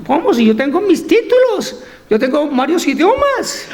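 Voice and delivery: mildly haughty, pitch lifted; a touch of proud indignation; arrogant. Acted. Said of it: "un poco arrogante".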